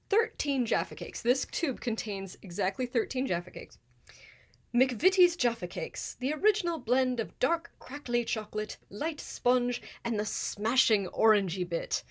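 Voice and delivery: put-on reading the label in a light British accent; a hint of a British ad read; reading the Jaffa Cakes tube in a mild British accent. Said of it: "sad British accent with the Jaffa Cakes".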